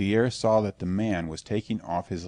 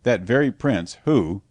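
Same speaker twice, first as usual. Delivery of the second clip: louder, with a strong emphasis landing on "who"; stress on WHO; 2 semitones higher, 6 dB louder than usual. A narrator's reading. Voice across the shed to his mates, strong emphasis on "who". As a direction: lean hard on "who". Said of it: "with a strong emphasis on the word who".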